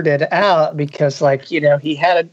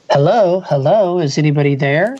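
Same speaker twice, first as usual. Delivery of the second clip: mock shout. Young Reggie searching the hiding place calls out, mock shout. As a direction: shout hello into the dark, not full force. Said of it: "young Reggie's voice shouting".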